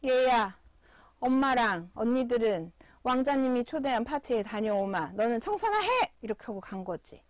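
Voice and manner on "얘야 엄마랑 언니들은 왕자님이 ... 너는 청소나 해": mean stepmother. Retold or imitated. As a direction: order her about like a spiteful stepmother. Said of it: "계모와 그 심술궂은 언니들". (심술궂은 계모를 가볍게 흉내)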